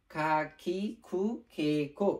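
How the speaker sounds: খা, খি, খু, খে, খো as separate aspirated syllables; kha-line pronunciation. Shown as a demonstration. Teacher reviewing the kha line, aspirated খা, খি, খু, খে, খো. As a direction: sound out খা, খি, খু, খে, খো with a kh onset on each. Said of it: "অক্ষরগুলোর উচ্চারণ কি হবে".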